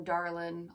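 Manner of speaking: "darlin'" with the final G dropped. Shown as a demonstration. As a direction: say "darlin'" ending in a plain n, not ng. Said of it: "I'll drop the G".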